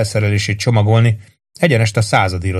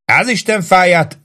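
slow, high exasperated curse; fuming; 9 semitones higher than usual. A narrator's reading. Lieutenant cursing the sergeant in a rage. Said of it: "dühöngött Ross főhadnagy".

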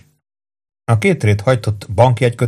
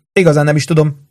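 wavering, high-voiced doubt; mildly unsure, raised pitch; hesitant; 6 semitones higher than usual. A narrator's reading. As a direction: say it undecidedly. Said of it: "folytatta habozva".

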